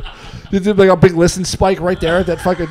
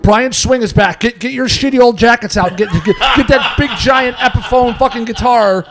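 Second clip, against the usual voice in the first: mock urgent caller; 4 semitones higher, 3 dB louder than usual. Acting out the urgent phone caller.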